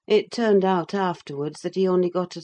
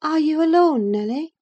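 high-pitched young lady, voiced not whispered; girlish high voice checking the coast is clear; Catherine, hushed call; 11 semitones higher, 6 dB louder than usual. A narrator's reading. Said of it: "put her head in and whispered".

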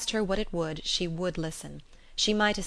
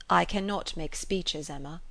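sincere tenderness. Acted. Knightley declaring love to Emma, tender. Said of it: "a tone of such sincere ... tenderness".

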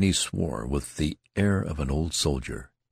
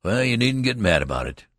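higher and louder, calling after him; savage; 6 semitones higher, 5 dB louder than usual. Acted. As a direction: fling it at his back. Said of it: "called in a savage voice".

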